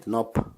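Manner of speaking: "nop" by itself, ending on a stopped p; isolated syllable. Shown as a demonstration. Teacher inviting listeners to try it, "nop" clearly isolated. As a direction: sound out "nop" as a single syllable. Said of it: "just try pronouncing it".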